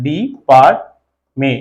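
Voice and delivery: डी, पार्ट, में as three separate syllables; syllable-by-syllable demo. Shown as a demonstration. Teacher counting vowel sounds for students, डी, पार्ट, में said syllable by syllable. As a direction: break the word into डी, पार्ट, में with gaps. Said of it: "दो तीन vowel sound इसमें देख रहे हैं".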